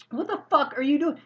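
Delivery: high-pitched indignant demand; acted angry challenge. Driver confronts the attendant.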